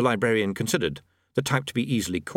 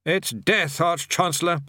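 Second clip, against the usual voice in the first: patient; 6 semitones higher, slower than usual. A narrator's reading. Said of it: "said the bursar patiently".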